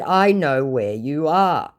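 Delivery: slow, drawn-out retold taunt; mock-ominous reply; knowing taunt. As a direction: spell it out slowly to the scammer. Acts out own retort.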